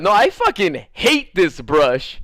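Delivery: slow, loud, emphatic loathing; acted-out drawn-out irritation; retold annoyance. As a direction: lean hard on each word, fed up. Retold hatred of brush.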